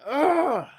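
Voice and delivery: high-pitched frustrated groan; drawn-out "ugh" of frustration; exasperated groan. Retold or imitated. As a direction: groan as if fed up. Acts getting hyped in argument.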